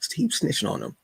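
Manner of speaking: "Keep" jumps high, then falls; "Keep snitching on them" pushed up high; high teasing repeat. Shown as a demonstration. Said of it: "repeated line, pitched up".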